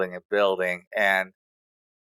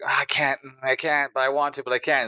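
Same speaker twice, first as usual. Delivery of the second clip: higher-pitched mock torn hesitation; imitating inner conflict; 5 semitones higher than usual. Retelling a wrestler wavering over the belt, mock-torn. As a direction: act out someone torn, pitched up. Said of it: "It's like fighting himself the whole time".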